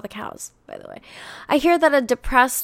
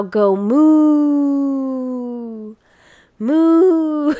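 high, loud mooing; a singer's moo; 4 semitones higher, 5 dB louder, much slower than usual. Retold or imitated. Quoting a viral song for chat, mooing high and loud. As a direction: moo like a cow, laughing through it. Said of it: "That's a singer's moo".

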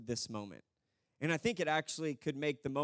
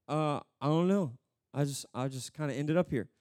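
lower, hesitant thief voice; bewildered thief; 4 semitones lower than usual. Acted. Thief answering an angel at heaven's gate, bewildered. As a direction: play him lost, stumbling over words. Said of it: "the thief is just like".

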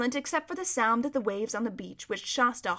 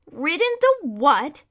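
drawn-out, scornful horse; louder, higher, incredulous retort; extreme contempt; 5 semitones higher, 8 dB louder, slower than usual. A narrator's reading. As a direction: throw the question back with disdain. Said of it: "retorted the horse with extreme contempt".

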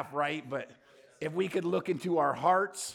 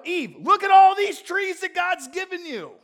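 much higher, louder, slow mock-sweet tempter; mock cheerful serpent; 12 semitones higher, 14 dB louder than usual. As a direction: ham up a sweet-talking serpent. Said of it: "He doesn't go".

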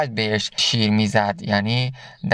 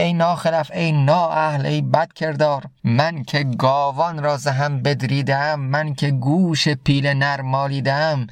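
lion's shout. Acted. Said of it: "شیر فریاد زد که".

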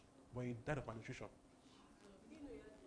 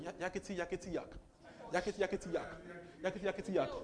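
mimicking demon chatter; 2 semitones higher than usual. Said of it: "just kept going".

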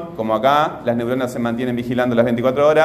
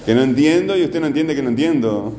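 imitating a frustrated student. Teacher imitates a student who got furious not understanding, mock frustrated. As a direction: play the stuck pupil whining at his teacher. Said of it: "se ponía, este, furioso porque no entendía".

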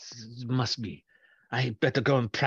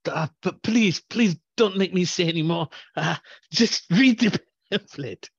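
put-on nervous young professional; 2 semitones higher than usual. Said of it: "had a nervous intern run in".

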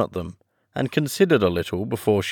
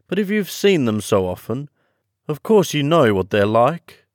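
high, loud character voice; swooping, high storybook creature; Mock Turtle; 7 semitones higher, 7 dB louder than usual. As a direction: voice the Mock Turtle, raised and emphatic.

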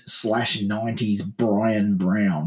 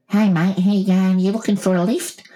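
higher, chatty mock driver; imagined driver hailing; 7 semitones higher, 3 dB louder than usual. Driver pulling up to offer lift, higher chatty voice. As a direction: pull up and hail him, pitched up. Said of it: "pull up to him and go".

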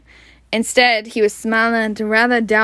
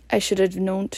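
softer mumbled aside; 2 semitones lower, 6 dB quieter than usual. A narrator's reading. Wizard talking to himself on seeing the cat, soft mumble. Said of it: "He giggled and mumbled".

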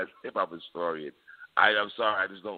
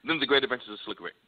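higher, mock-insistent voice of someone who disagrees; imitating an opposing fan; 8 semitones higher than usual. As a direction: play the other side, half-mocking. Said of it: "so you're saying somebody's gonna say".

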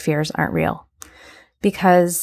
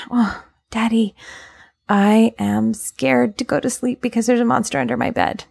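put-on scared child; 4 semitones higher than usual. Child voice in bedtime example.

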